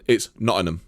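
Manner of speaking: Nottingham said the local way, Nottingham clipped to "Nott-in-um" with no G; broad Nottingham accent. Shown as a demonstration. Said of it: "in a Nottingham accent".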